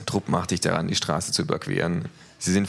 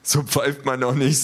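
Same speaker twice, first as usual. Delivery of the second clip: slow, louder amused thug voice; 8 semitones higher, 4 dB louder than usual. A narrator's reading. Big thug mocks the kangaroo's whistle, mildly amused. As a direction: chuckle at the poor whistle. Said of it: "sagt der Große belustigt".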